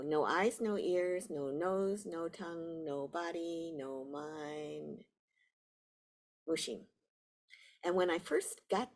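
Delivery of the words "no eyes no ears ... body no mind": sutra recitation. Acted. Reciting the Heart Sutra's list.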